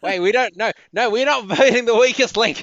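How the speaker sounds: loud, high, laughing objection; laughing protest. Real, not acted. Laughing protest at being voted out.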